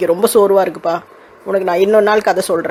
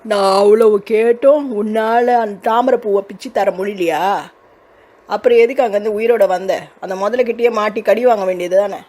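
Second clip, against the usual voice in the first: put-on menacing ghost girl.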